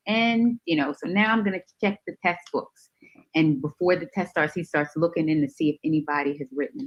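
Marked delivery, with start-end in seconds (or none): 0.1-2.9 the professor. Retold or imitated. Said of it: "and he's like".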